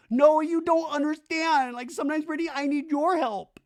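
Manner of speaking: very high, loud wailing; drunk Zach. Retold or imitated. Drunk Zach pleading for Brittany's help, high mock wail. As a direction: whine it out in hammed-up drunken despair. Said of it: "Zach's so drunk".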